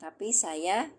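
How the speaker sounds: "La, tidak" drawn out slowly; slow model answer. Shown as a demonstration. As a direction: spell out the answer slowly for learners. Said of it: "jawabnya apa?". (jawaban contoh diucapkan pelan)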